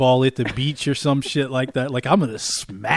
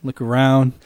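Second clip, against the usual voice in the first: ordinary talk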